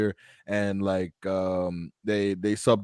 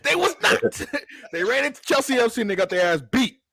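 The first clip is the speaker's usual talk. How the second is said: put-on London accent, high and teasing; 8 semitones higher than usual. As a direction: tease him in a London accent. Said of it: "doing my London accent".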